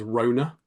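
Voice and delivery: Rona said ROH-nuh, two syllables; wrong name Rona. Retold or imitated. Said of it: "pronounced them wrong".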